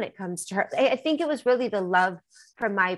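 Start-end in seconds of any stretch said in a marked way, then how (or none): 0.0-0.7 a fierce whisper, no voice. Real, not acted. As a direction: whisper it like a serious promise. Protective remark about niece.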